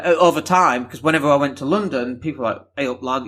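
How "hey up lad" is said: lightly voiced Yorkshire greeting; a hint of broad Leeds accent; northern accent. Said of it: "you know, very northern".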